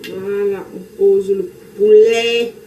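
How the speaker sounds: Cameroonian-accented French, last word slow and drawn out; playful Cameroonian accent. Real, not acted. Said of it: "j'aime mon accent là". (accent camerounais savouré, en traînant sur le dernier mot)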